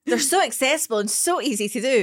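hammed-up fake tan commercial; mock ad read. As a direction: sell it like a fake tan advert. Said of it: "the perfect ad for a fake tan".

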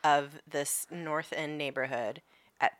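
whispered, like telling a ghost story; hushed retelling. Real, not acted. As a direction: hush it to a whisper for the disaster. Dramatic disaster retelling.

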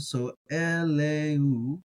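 very slow eleu starting on a plain e; e sound. Shown as a demonstration. Teacher showing the silent-aleph reading, slow eleu. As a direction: stretch out eleu with an e vowel. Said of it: "which is an e sound".

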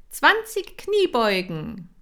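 loud, high, slow trainer call; called command. Acted. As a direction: call the exercise to the class. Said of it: "rief Kira". (laut und hoch gerufenes Kommando)

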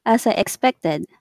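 giggling mockery; laughing tease. Real, not acted. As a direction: laugh at their choice. Teasing laughter.

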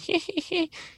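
put-on high, thin old-woman cackle from far off; eerie old crone giggle; old lady cackle. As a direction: cackle like a creepy old hag. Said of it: "this kind of old lady laughing".

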